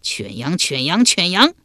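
captive general taunting the enemy, shouting; defiant shout. Acted. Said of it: "遂高声叫道".

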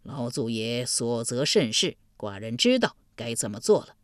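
low sighing ruler; sighing duke. Acted. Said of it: "叹道".

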